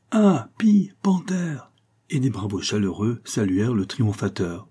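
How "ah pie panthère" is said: excited high whisper of the crowd; whispered exclamation. A narrator's reading. Guests whisper-cry the answer, excited. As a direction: breathe it out high and eager, guests solving the riddle. Crowd guesses the charade aloud.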